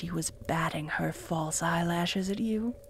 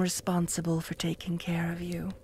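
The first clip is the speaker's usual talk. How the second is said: whisper; 4 semitones lower, 5 dB quieter than usual. Acted.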